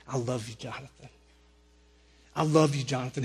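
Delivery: low, soft retold reassurance; soothing reassurance. George King holding an out-of-control kid, soothing. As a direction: gently repeat it, pitched low, to calm him.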